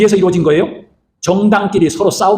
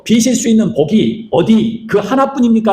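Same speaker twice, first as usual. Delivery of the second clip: high, slow, drawn-out appeal; imitated pleading; 6 semitones higher, slower than usual. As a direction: plead like a son begging his father. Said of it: "라고 애원을 합니다". (애원하는 흉내)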